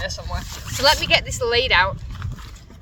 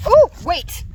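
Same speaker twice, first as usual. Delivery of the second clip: surprised; 5 semitones higher, 6 dB louder than usual. Real, not acted. Something blows away.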